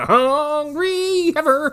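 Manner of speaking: drawn out through a laugh; laughing repeat. Real, not acted. Friend echoes the punchline, laughing slow. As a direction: savor the joke, slowly, laughing.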